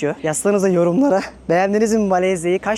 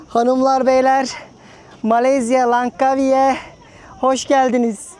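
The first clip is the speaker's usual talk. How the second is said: announcer voice; 6 semitones higher, 3 dB louder, slower than usual. Pretend. Mock welcome to the audience.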